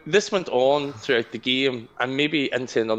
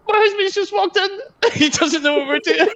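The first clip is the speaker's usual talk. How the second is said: flustered laugh; 4 dB louder than usual. Retold or imitated. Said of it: "I was like".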